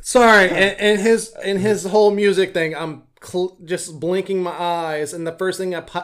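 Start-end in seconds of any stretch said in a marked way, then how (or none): 0.0-2.8 laughing. Real, not acted. Laughing apology.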